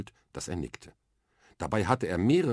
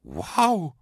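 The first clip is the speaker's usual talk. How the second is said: put-on higher, louder amazed girl; excited exclamation; 9 semitones higher, 6 dB louder than usual. Mia hears Wonder Woman lives here, excited call. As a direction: burst out in wonder. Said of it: "rief das Mädchen".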